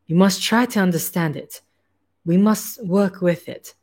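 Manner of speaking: put-on light German accent for the hairless scientist; a hint of a German scientist's accent; German accent, lightly worn. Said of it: "I don't know why this accent".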